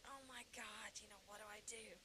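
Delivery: soft, helpless aside to oneself; hushed mock dismay. Teenager facing a date tomorrow night, hushed dismay. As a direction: say it small, as a private panic. Retells panicked thought to herself.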